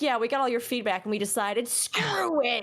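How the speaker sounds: mock developer voice. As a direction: play a careless dev shrugging it off. Mocking devs' reply.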